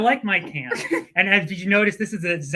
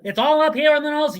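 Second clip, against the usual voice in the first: put-on old-timey radio voice; 9 semitones higher, 5 dB louder than usual. Shown as a demonstration. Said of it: "old-timey radio voice is more like".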